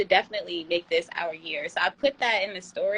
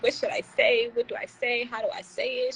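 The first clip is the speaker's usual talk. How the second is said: ordinary talk, nothing marked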